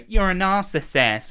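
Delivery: high, drawn-out mock accusation; mocking accuser. Mimicking people who throw that word around, mocking.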